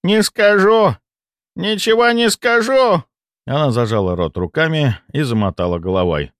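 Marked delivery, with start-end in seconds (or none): 0.0-3.0 put-on high, shrill-free old lady refusal; stubborn old woman. A narrator's reading. Old woman refusing the narrator, high insistent voice. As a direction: play the old woman digging in her heels.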